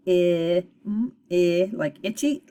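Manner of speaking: "I" said as the short i of itchy; short vowel sound. Shown as a demonstration. Teacher shows the first part's vowel, short i sound. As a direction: isolate short "I", then link it to "itchy". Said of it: "say its short vowel sound".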